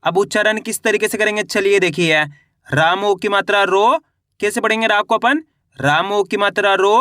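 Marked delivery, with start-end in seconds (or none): 2.7-4.0 teacher sounding out रो letter by letter; slow syllable reading. Shown as a demonstration. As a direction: spell out each syllable slowly. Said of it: "मेरे तरीके पे गौर करना है".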